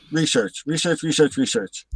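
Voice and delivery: research, research, research, each word stressed; repeated emphasis. Shown as a demonstration. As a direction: drive home research, research, research.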